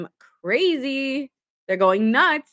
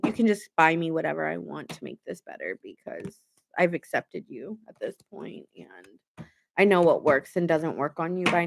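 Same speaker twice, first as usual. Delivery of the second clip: weary Libra; 3 semitones lower than usual. Retold or imitated. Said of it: "I hear Libra in my mind".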